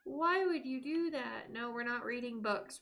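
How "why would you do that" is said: mock dismay. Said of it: "And I'm just like".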